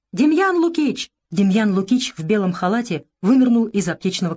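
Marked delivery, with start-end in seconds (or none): 0.1-1.1 громкий зов, выше; позвать в отчаянии; вопль. A narrator's reading. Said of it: "и завопил". (завопил)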